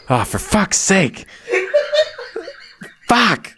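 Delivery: high, loud giggling through the words; can't get the words out for laughing; laughing fit. Real, not acted. Host cracking up after flubbing the intro, laughing fit. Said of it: "I can't stop laughing".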